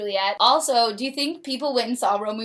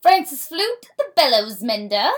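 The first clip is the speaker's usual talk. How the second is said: dramatic play reading; 5 semitones higher, 5 dB louder than usual. Acted.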